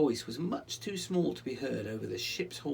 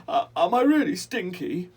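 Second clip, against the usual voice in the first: high, loud, wounded rat voice; upset little rat; 8 semitones higher, 12 dB louder than usual. Acted. Little rat asking Rollo if he smells, high and hurt. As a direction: blurt it out, hurt. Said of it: "the little rat begins to cry".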